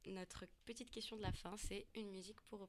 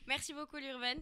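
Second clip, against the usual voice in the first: suave voice; 5 semitones higher, 8 dB louder than usual. Pretend. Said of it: "c'est bien plus doux".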